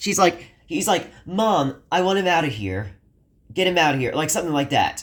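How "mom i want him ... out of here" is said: angry, acted-out voice. Retelling what an upset son said to his mother: imitating an angry son. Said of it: "And Aiden was angry as well".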